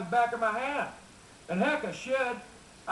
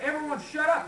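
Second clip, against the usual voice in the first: exasperated order; 7 semitones higher than usual. Retold or imitated. Jeb snapping at trapped family.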